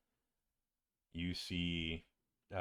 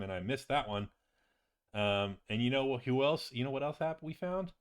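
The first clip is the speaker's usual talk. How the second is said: lilting, animated character voice, a bit higher; chatty wizard companion; 4 semitones higher than usual. Acted. Visiting friend tells patient about the treasure, chatty and animated. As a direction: rattle off the loot with rising enthusiasm.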